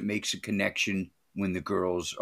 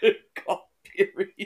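higher, louder, fast teasing jab; mocking echo; 11 semitones higher, 5 dB louder, faster than usual. Real, not acted. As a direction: throw the joke back at him, teasing.

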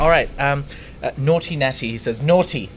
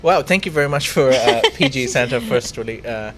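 American accent; 3 semitones lower than usual. Shown as a demonstration. Host asked to read a donation comment, attempting an American accent. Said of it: "Can you try saying something with an American accent?".

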